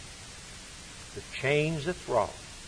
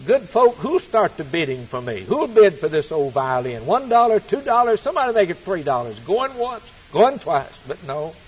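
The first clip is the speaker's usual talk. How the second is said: auctioneer calling bids; 3 semitones higher, 5 dB louder than usual. Retold or imitated. Preacher reciting a poem, playing the auctioneer calling bids. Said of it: "and he said".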